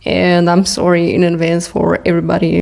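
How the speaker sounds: speaking with braces on; lisping slightly through braces. Real, not acted. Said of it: "sorry, I have braces".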